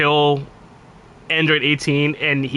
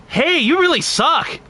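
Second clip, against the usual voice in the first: mocking younger troll voice; 9 semitones higher than usual. Streamer imitating his teenage troll self taunting gamers, high squeaky jeer. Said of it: "I sounded closer to him than I do now".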